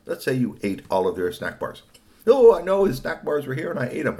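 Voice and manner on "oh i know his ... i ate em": guilty confession. Acted.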